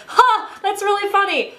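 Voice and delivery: high, amused mock reaction; high hammed-up amusement. Shown as a demonstration. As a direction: sound tickled, up high. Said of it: "actually just be like".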